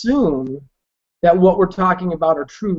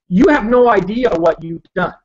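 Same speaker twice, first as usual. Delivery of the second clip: choppy, breaking-up call audio; glitchy robotic call. Real, not acted. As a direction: voice cutting in and out over a bad line. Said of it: "Your audio is breaking up again".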